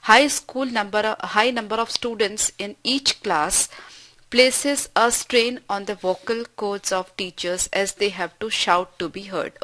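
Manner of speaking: each word spaced out slowly for the class; slow dictation reading. Shown as a demonstration. Teacher reading an example sentence to students, slow and deliberate.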